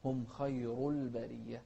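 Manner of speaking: خير with dark خ and ر; careful recital with a full-mouthed خير; heavy kha and ra. Shown as a demonstration. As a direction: thicken both خ and ر in خير. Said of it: "التفخيم في الخاء والراء".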